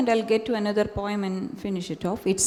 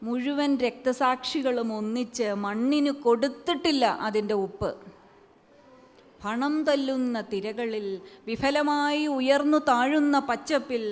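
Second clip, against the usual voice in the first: poetry recital; much faster than usual. Acted. Poet reciting her poem to an audience, measured recital. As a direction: let each image land before moving on.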